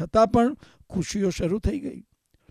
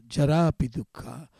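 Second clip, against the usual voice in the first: soft repeat; 3 semitones lower, 6 dB quieter than usual. Shown as a demonstration. Softer repeat.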